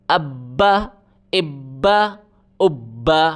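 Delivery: ابا with the ب pressed hard and held; doubled letter. Shown as a demonstration. Teacher showing pupils how the doubled ب is pressed hard. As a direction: say ابا with a short stop on the doubled ب. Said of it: "اس طرح پڑھا جائے گا".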